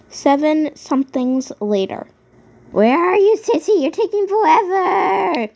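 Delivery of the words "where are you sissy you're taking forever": higher, louder whining shout; impatient yell. Real, not acted. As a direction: call out fed up and tearful. Impatient yelling for Sissy.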